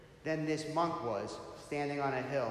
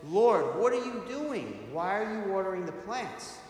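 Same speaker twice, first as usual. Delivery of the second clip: higher-pitched, raised call from above; 4 semitones higher, 4 dB louder than usual. Acted. Monk on the hill yells to Christ in the garden, calling out. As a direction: yell it out in surprise to someone below. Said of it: "he yells from up above".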